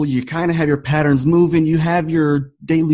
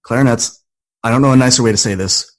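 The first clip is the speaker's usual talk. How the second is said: retold director; 2 semitones lower, faster than usual. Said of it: "And finally he goes".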